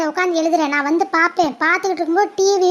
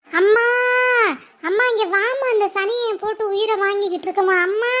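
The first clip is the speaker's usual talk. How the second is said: whiny fake crying to mother; 2 semitones higher than usual. Child complains to mother.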